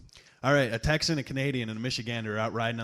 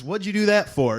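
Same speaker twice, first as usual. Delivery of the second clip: higher and louder, aghast at the shooting; shocked outcry; 8 semitones higher, 8 dB louder than usual. Acted. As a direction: blurt it out in alarm. Texan reacting to a shooting.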